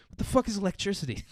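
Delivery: high, soft baffled voice; lightly voiced confused Moses; squeaky bewildered question.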